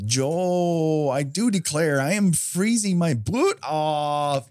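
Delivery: mock a Southern belle with a misplaced emphasis; mock Southern drawl. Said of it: "the emphasis is on the wrong syllable".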